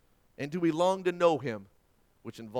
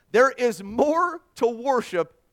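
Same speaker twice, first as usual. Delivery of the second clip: loud, raised-pitch declaration; emphatic preaching; 9 semitones higher, 10 dB louder, slower than usual. Real, not acted. Preacher landing the sermon's point, emphatic preaching. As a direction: drive the point home with force.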